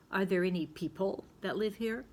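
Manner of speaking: "people" stressed on its second syllable inside a question; wrong-syllable stress. Shown as a demonstration. Teacher showing pupils a wrong stress, "people" stressed at the end. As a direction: ask it with "people" as pee-PUL. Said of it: "that's not how you say it".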